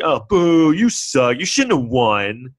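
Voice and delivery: playful mock boo and jeer. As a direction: heckle the winner like a rowdy crowd. Imagined booing at winner.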